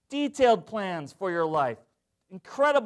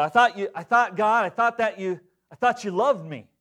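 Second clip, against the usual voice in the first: sulky attitude; 3 semitones higher, 5 dB louder than usual. Retold or imitated. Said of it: "I just had attitude".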